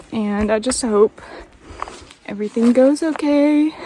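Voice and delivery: real tears, pushing words out; crying. Real, not acted. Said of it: "I'm crying again".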